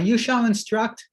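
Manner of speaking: teacher hammering the "you"; emphatic you. Shown as a demonstration. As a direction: punch "you" hard. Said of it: "But in any event".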